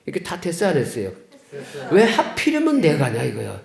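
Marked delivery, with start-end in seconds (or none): 1.9-3.2 higher-pitched mock lament; retold aggrieved protest. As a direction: protest your fate, imitating a wronged patient. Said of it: "도대체 내가 무슨 죄를 졌길래". (억울한 듯 높여 따지는 흉내)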